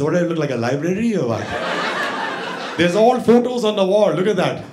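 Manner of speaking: mock the customer's question; sarcastic barber. Barber mocking the request.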